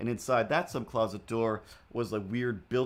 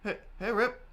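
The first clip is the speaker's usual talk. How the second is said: astonished at cat. Real, not acted. Finding hidden cat in drawers.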